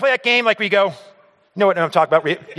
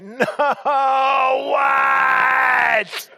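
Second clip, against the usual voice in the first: startled shout; 9 semitones higher than usual. Retold or imitated. Son caught sneaking out, shouting back at mom. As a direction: jump and shout it, caught in the act.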